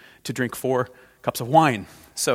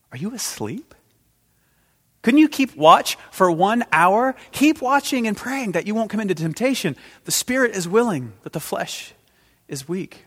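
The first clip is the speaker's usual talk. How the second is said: Jesus scolding Peter; 8 semitones higher, 4 dB louder than usual. Acted. Jesus to sleeping Peter, rebuke fading to gentle. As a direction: chide the sleeping friend, then soften.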